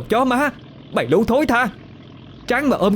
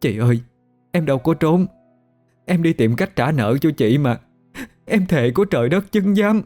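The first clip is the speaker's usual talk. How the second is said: high, tearful pleading; weepy protest of innocence; sobbing plea; 6 semitones higher than usual. A narrator's reading. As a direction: plead through put-on sobs, climbing higher. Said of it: "giọng nức nở".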